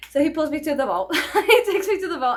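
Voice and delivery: telling it through a laugh. Real, not acted. Telling the vault story, laughing while talking. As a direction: let the laugh spill over the words.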